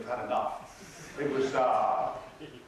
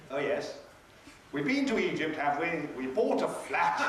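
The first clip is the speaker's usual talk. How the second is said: clunking irony. Retold or imitated. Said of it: "with absolutely clunking irony".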